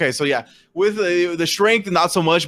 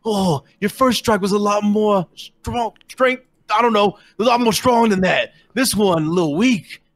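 higher, slow taunting voice; mocking orc taunt; 5 semitones higher than usual. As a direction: sneer at the weak slap like a smug brute. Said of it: "slap him across the face and goes".

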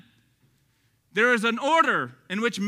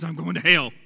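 mock dismay in a Texas accent; 5 semitones lower, 5 dB louder than usual. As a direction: lean into the Texas accent on "hell". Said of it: "my Texas accent".

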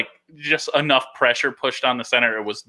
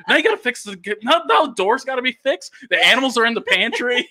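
higher, nagging mock scolding; annoyed girlfriend; 9 semitones higher than usual. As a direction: scold like an exasperated partner. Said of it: "And she's like".

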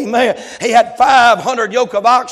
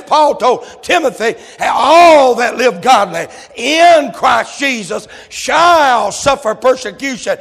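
louder preacher push with a shouted scripture line; exhorting preaching; 4 dB louder than usual. Acted. Preacher warning the church about hardship, exhorting preaching. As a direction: drive the warning home to the pews.

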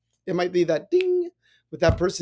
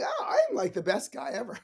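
mock bragging; 4 semitones higher, 4 dB quieter than usual. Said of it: "stopping and, like, saying".

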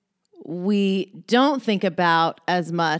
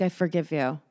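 softly spoken, understated flowery line; flowery forgiveness; 3 semitones lower, 5 dB quieter than usual. Acted. Mocking how flowery forgiveness sounds, softly sweet. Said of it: "doesn't that sound so flowery".

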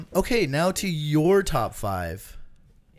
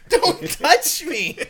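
laughing protest; 8 semitones higher, 5 dB louder, much slower than usual. Real, not acted. Friend reaching out.

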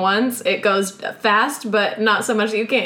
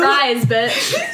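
Madison quote; much slower than usual. Retold or imitated. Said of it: "American Horror Story".

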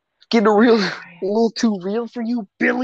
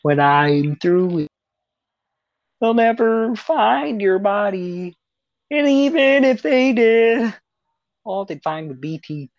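game villain threat. Retold or imitated. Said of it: "He just imitates the game".

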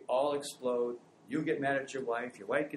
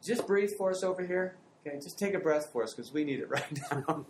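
raised, laughing plea to onlookers; laughing call out; 4 semitones higher, 3 dB louder than usual. Retold or imitated. Parent asking staring strangers to breathe, laughing loudly. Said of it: "you look at them and you go".

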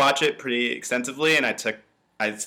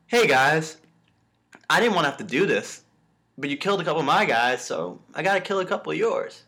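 imitating a villain talking calmly; lightly voiced calm, matter-of-fact menace; reasoning casually with his captives; 4 semitones higher than usual. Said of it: "He's talking, like, very calmly".

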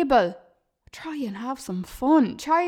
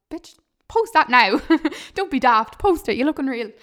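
louder, pushy mock friend egging you on; bossy hype friend; 4 dB louder than usual. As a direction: bark it like a cheeky best mate. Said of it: "your friends are like".

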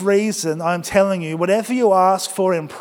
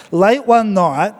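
slow, drawn-out "Late one night"; slow storyteller opening; 2 semitones higher, 3 dB louder, slower than usual. Shown as a demonstration. Pastor starting his joke to the church, slow and drawn out. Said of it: "Let me try something".

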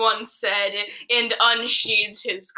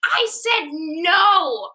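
half-held yell; 6 semitones higher, much slower than usual. Acted. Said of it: "I screamed".

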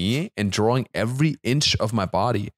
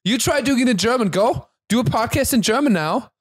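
worked up; 7 semitones higher than usual. Real, not acted. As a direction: defend yourself, fired up. Heated defence of podcasting in German.

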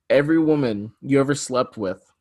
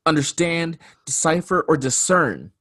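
Stephen A. Smith rant; 5 semitones higher than usual. Acted. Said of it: "Yes, Stephen A. Smith".

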